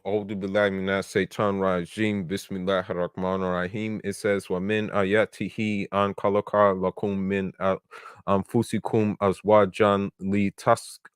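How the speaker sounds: measured Arabic scripture recitation; Quran recitation. Acted. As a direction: recite the verse aloud in Arabic.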